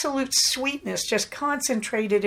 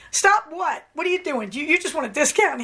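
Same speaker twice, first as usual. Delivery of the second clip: higher, playful fake-innocent retort; mock innocent teasing; 6 semitones higher than usual. Shop clerk teasing a customer, mock innocent and playful. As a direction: play dumb while piling gifts on her.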